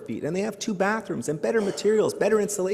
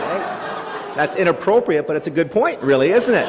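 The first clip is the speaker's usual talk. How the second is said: louder mock telling-off through laughter; laughing scold; 7 dB louder than usual. The speaker answers a cheeky student, laughing and louder. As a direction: scold while cracking up.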